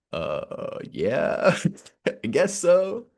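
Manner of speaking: nervous reply. Retold or imitated. Scared boy answering masked man.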